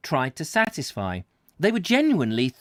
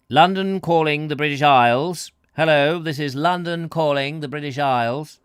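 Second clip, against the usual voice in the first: BBC announcer; 5 dB louder than usual. Retold or imitated. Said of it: "the chap who announces the nice man".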